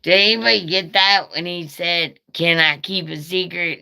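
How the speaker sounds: asking the live stream viewers in disbelief; incredulous asking. Retold or imitated. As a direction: urge the viewers to confirm it. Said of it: "I was like".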